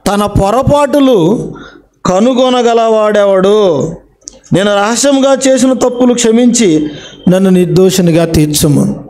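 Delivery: the verse again, slowly, each phrase drawn out; slow it right down to drive the verse home; preacher repeating scripture slowly for emphasis; slow emphatic repeat. Shown as a demonstration. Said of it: "చూసారా?".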